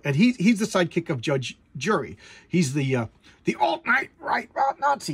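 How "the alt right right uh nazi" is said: scornful jab. Real, not acted. Mocking the far-right character.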